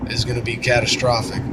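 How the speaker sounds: hoarse, sick voice; scratchy voice from a cold; raspy voice. Real, not acted. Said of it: "please excuse the, uh, raspy voice".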